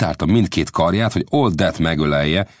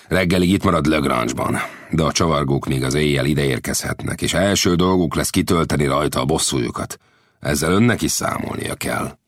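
Lang's voice. Acted. Lang warns.

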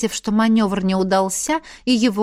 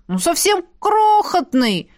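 high, slow innocent exclamation; exclaimed; 11 semitones higher, 3 dB louder than usual. Acted. Elf excuses the palace fire to the colonel, high and innocent. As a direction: play it down with wide-eyed innocence, higher. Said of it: "воскликнул Лин".

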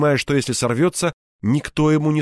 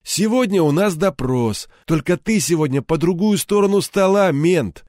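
a hint of a tough thug, pushed up and louder; gloating thug lording it over his prisoner; menacing captor; 6 semitones higher, 3 dB louder than usual. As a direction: taunt him from above, half-shouting. Captor threatens the colonel.

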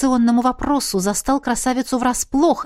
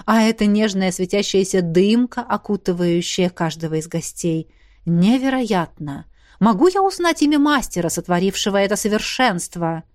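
exclaiming. Acted. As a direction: gush over it in wonder. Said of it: "воскликнул Хуан".

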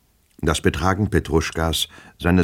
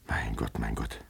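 despairing sigh; 5 semitones lower, 11 dB quieter than usual. Acted. Despairing alone at night.

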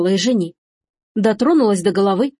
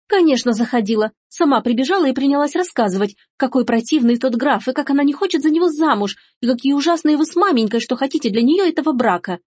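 put-on higher, lively tattling girl; lightly voiced cheeky daughter; 5 semitones higher than usual. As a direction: tell on her eagerly, pitched up. (дерзкая дочь ябедничает)

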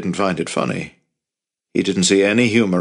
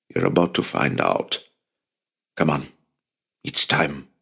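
uncle voice; 5 semitones lower, 4 dB quieter than usual. A narrator's reading. Avi voiced low.

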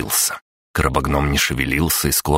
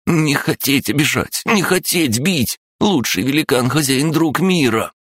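snappy clicking crab; 11 semitones higher than usual. Acted. Crab gnome apologizes.

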